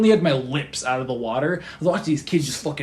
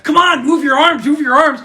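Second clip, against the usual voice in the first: camp leader urging; 9 semitones higher, 5 dB louder than usual. Retold or imitated.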